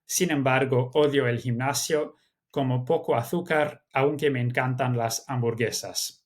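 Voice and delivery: measured exam-style Spanish read-aloud. Shown as a demonstration. Teacher showing students how to read the exam passage, reading aloud. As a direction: read the Spanish text out as a candidate would. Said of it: "I would read it aloud, uh, as such".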